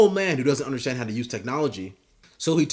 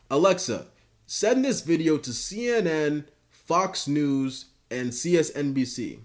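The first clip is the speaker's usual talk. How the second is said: put-on old man voice; 4 semitones higher than usual. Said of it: "And he goes".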